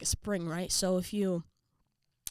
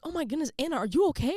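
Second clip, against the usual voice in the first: high, concerned friend voice; Cheryl; 7 semitones higher, 4 dB louder, faster than usual. Retold or imitated. Teammate checking on puking friend, concerned. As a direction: imitate a worried teammate, pitched up. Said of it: "Cheryl rolls around and is like".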